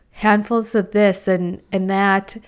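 talking with the hiccups. Real, not acted. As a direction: hiccup through the words. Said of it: "I have the hiccups".

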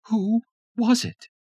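wife with knife demanding answer; menacing Tanya. A narrator's reading. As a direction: demand it slowly, threatening. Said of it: "Her good eye glared".

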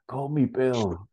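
slow, high dying duck; croaking duck. Acted. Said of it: "Duck Bill croaks".

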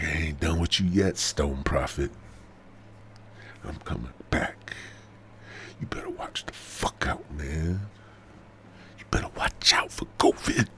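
a hint of menacing virus talking, hushed in places; lightly voiced covid. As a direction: play covid quietly threatening its host. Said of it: "This covid, you know, it's, it's coming back".

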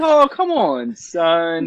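pleading dads. Acted. Podcaster voicing two dads appealing to their son, mock pleading. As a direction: plead like exasperated parents, hammed-up. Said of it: "they're appealing to him".

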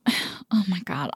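sighed, whispered and slow; a soft, slow, weary whisper; exasperated whisper. Real, not acted. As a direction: breathe it out, fed up. Exasperated aside after a sigh.

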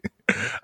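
soft, breath-only chuckle; real laugh. Real, not acted. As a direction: laugh quietly under the breath. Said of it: "I'm laughing too much".

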